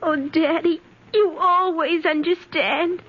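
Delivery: put-on tearful child's relief. Child to her understanding father, tearful. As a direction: say it through lingering tears.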